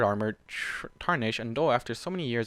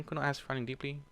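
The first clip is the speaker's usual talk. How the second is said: ordinary delivery, nothing marked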